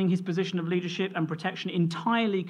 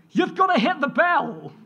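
excited shout, higher and louder; child's yell; 9 semitones higher, 6 dB louder than usual. Retold or imitated. Father imitating his son Toby's excited yell at bedtime. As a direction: mimic a boy who can't wait to hit the bell. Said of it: "And he yelled".

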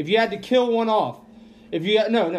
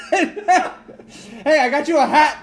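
mocking Topher; 6 semitones higher, 4 dB louder, slower than usual. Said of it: "Topher comes hobbling in here".

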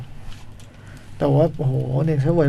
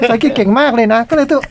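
laughing; 5 semitones higher than usual. Real, not acted. Laughing over the contradiction.

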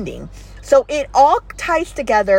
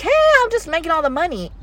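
quick mock boast; 7 semitones higher, much faster than usual. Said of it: "not freedom like".

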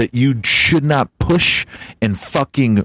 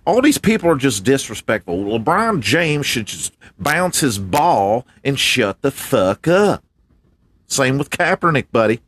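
higher pitched MAGA guy; MAGA man character; 3 semitones higher than usual. Acted. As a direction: lay down the law for the troops, pitched up. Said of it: "What'd you guys say, MAGA man".

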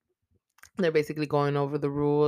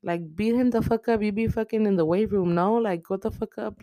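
yelling at the screen; 6 semitones higher than usual. Retold or imitated. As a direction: egg him on like he can hear you. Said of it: "I'm like".

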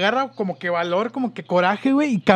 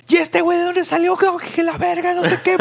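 surprised; 8 semitones higher than usual. Retold or imitated. Dad sees friend run out.

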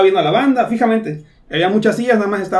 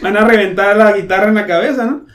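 laughing panicked quote; 4 semitones higher, 8 dB louder than usual. Retold or imitated. Friend panicking about drummer.

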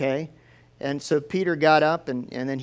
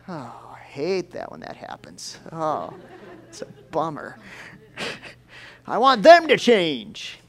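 mock whining; slower than usual. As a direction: parody his own sulking. Preacher mocks his own whining.

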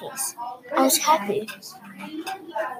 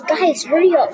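mild mock yell; 5 semitones higher, 4 dB louder than usual. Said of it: "my mother yells".

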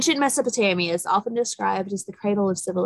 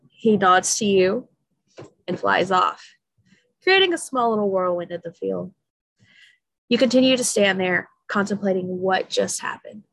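calm storyteller voice; story narration; 2 semitones lower than usual. A narrator's reading. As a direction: read it like a bedtime story. Reading a story aloud.

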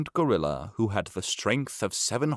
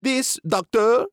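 higher, louder, slow announcing monkey; Chi-Chi's higher showman voice; monkey presenting; 12 semitones higher, 6 dB louder than usual. Acted. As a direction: present it grandly, pitched up.

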